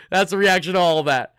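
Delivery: usual speaking voice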